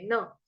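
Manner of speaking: न kept brief; short na. Shown as a demonstration. Teacher corrects the long vowel, short न. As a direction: end न on a short vowel, unstretched. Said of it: "ना नहीं बोलेंगे".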